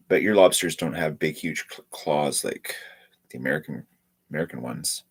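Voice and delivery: stuffy nose; talking with a stuffy nose; blocked nose. Real, not acted. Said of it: "I'm all stuffy right now".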